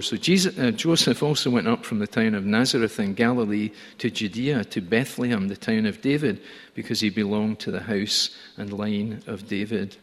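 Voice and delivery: steady public reading of the verses; scripture reading. Acted. Preacher reading scripture to the congregation, steady and clear. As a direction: read the passage out to the congregation.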